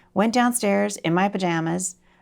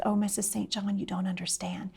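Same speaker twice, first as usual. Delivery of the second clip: tearful girl, retold; 9 dB quieter than usual. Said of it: "she's crying".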